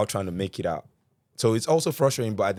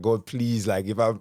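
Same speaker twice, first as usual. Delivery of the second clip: mock prayer; 4 semitones higher, 4 dB louder than usual. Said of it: "my prayer point is like".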